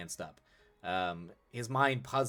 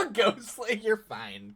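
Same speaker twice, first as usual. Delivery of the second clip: laughing; 13 semitones higher, 9 dB louder, slower than usual. Real, not acted. Laughing at chat.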